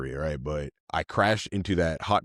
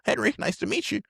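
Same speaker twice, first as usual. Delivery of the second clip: put-on high drunk voice. Retold drunk self greeting.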